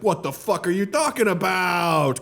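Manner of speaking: put-on slow, indignant Cuban accent; Scarface. Tony in his mansion answering the banker, Cuban-accented indignation. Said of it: "That's a perfect Scarface".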